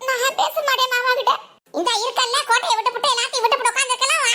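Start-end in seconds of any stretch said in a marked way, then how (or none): 0.1-1.3 a crying, pleading no; sobbing refusal; tearful refusal. Acted. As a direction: refuse through tears, like a scared girl. Refuses to call uncle, weeping.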